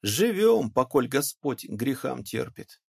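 put-on high start, then slow, homely old man's drawl; a touch of pious old man, unhurried; old coachman. Old coachman answering the sly peasant's greeting: slow, pious old voice.

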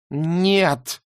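high breathless gasp of horror. Acted. Beryl seeing the stepdaughter's licence, gasped no. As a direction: gasp the word out. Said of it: "ахнула Берил".

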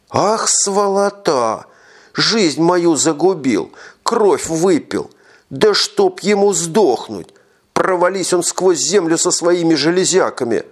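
high slow furious wailing; shrieking curses. Acted. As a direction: curse him through tears. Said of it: "выкрикивая".

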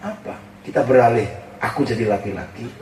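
soft pleading wife. Retold or imitated. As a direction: hold his hand and ask softly. Wife pleading softly, holding his hand.

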